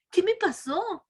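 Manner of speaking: put-on high, bewildered voice of a boy waking up; young man waking confused. Revived son calls for his mother, high and bewildered. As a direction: ask it lost and high-pitched, calling for mom. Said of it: "Yo creo que a lo mejor dijo".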